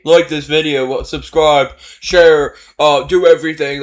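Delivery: parroting the clip's begging for likes; mocking the video's narrator. Viewer mocking a kids' video narrator, sarcastic parody.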